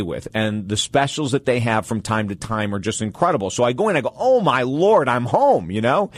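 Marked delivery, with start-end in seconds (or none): 4.1-5.7 drawn-out, swooping happy exclamation; thrilled, like arriving in paradise; delighted exclamation. Retold or imitated. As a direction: retell being blown away, pitch leaping on the opening. Retelling delight at the suits.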